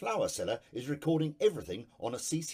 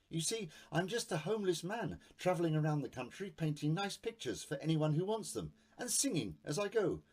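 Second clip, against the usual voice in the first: higher, meek pleading man; artist; 5 semitones higher than usual. Acted.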